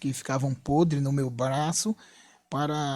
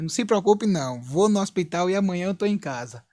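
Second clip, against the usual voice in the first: raised pitch, brisk reassurance to the wife; reassuring; 3 semitones higher than usual. Retold or imitated. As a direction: play down the accident for a worried wife. Reassuring wife after electric shock. (tranquilizando a esposa)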